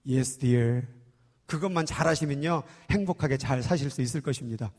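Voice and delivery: low, soft elder's counsel; imitated church elder. Elder telling a newlywed how to live happily, low imitated advice. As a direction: repeat the advice quietly, deep in the voice. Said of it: "그분이 그러더라고요".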